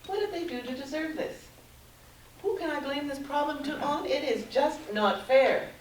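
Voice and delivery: voicing aggrieved anger, last words hammered out; angry. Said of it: "deep inside they're angry".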